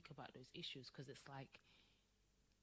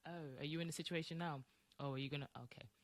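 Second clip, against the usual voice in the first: playful taunting, pitched up; mocking universe; 3 semitones higher, 5 dB louder than usual. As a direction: needle her like a smug universe. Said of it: "The universe is like".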